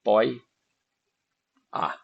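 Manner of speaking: each syllable said on its own, slowly. Shown as a demonstration. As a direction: split into syllables with long pauses between. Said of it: "vamos separar a sílaba".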